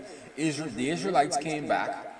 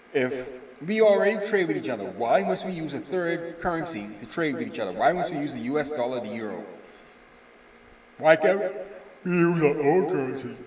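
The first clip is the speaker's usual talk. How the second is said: a touch of the official's voice, pressing the point; voicing the official; 2 semitones higher than usual. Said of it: "Mister Dea Denya's mind is that".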